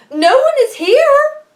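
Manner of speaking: squeaky high and loud with fear; a frightened wife's trembling squeak; quavering. A narrator's reading. Wife lying to the giant to hide Jack, scared quaver. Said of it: "she quavered".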